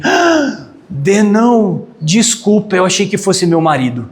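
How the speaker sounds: gasp, then apologise in a high voice; mortified gasp. Retold or imitated. Embarrassed wife to the man she elbowed by mistake, mortified. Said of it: "virou vermelha e falou assim pra mim".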